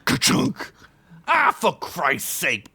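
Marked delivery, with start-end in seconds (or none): 1.3-2.7 slow, annoyed orc; mild orc exasperation; exasperated yell. Acted. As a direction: curse the lights going out. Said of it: "Blimp yelled".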